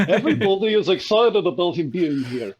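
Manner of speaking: hammed-up Israeli accent. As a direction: put on a rough attempt at an Israeli accent. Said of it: "says in his Israeli accent".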